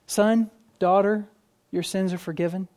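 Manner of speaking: gently spaced, kindly assurance; sweet kindness. Acted. Preacher voicing Jesus' forgiveness to the congregation, sweet kindness. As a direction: let each word land tenderly, unhurried. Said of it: "sweet kindness of this phrase".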